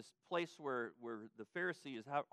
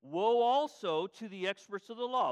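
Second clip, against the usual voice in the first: rising rebuke; 4 semitones higher, 7 dB louder than usual. Acted. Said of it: "But now he includes".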